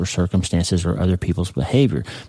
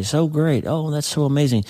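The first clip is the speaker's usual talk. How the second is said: high, thrilled mock celebration; jumping for joy; 7 semitones higher than usual. New author hearing the book sold, higher thrilled cry. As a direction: squeal it out like you just got great news. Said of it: "And you jump for joy".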